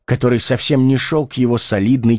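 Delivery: ordinary delivery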